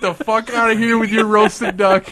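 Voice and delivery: hammed-up chef kicking a customer out; mock angry shout. Imagined chef throwing him out.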